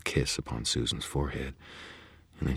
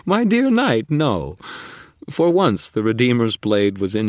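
high, loud gloating fae; mocking faerie; 6 semitones higher, 5 dB louder than usual. A narrator's reading. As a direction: toy with the knight. Leah voiced by narrator.

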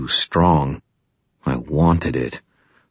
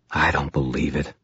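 softer, disbelieving; quiet; 5 dB quieter than usual. Acted. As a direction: say it under your breath. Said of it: "I said quietly".

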